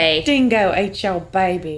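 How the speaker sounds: slow, hammed-up Australian; mock Australian accent. Repeating the Seinfeld line, mock Australian accent. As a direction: stretch it out in a fake Aussie accent. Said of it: "that thing from Seinfeld".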